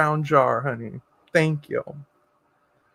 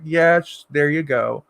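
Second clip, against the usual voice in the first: put-on talking to a child; 4 semitones lower, slower than usual. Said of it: "I tend to talk like".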